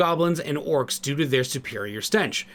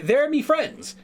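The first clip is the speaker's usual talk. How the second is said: higher, light Irish lilt, protective; a loose Irish accent, vouching for friends; 11 semitones higher, slower than usual. Acted. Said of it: "I'm bad at Irish accents".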